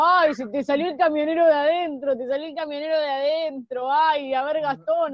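mocking posh cheta voice; posh argentine spanish. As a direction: imitate a posh Buenos Aires girl. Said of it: "me viven diciendo".

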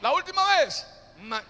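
slow, drawn-out call building to a loud finish; rising chant ending loud on oraré. Shown as a demonstration. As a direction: stretch each word, then hit tarde oraré loud. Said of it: "Otra vez, dígalo fuerte".

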